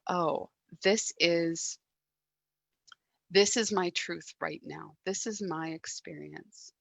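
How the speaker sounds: slow, gentle self-acceptance; calm acceptance. Shown as a demonstration. Teacher showing the listener calm acceptance of anger. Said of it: "breathe in and say".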